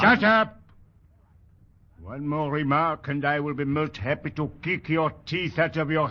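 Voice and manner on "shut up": loud, higher snap to silence him; furious bark. Acted. Sergeant shouting a recruit into silence. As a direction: cut him off hard.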